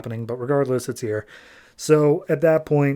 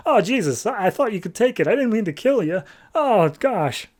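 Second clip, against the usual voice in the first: high, flustered mock horror; imitating someone aghast at an accident; acted panicked apology; 8 semitones higher than usual.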